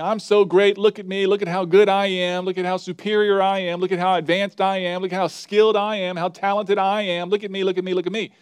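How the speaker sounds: mock bragging, pitched slightly up; hammed-up, insistent self-praise; boastful. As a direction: run on like a show-off demanding attention. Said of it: "Boasting is whenever you talk about".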